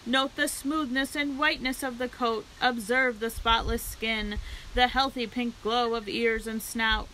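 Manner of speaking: lightly voiced loudspeaker address to the crowd; a hint of a county fair announcer. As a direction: present the pig like a showman.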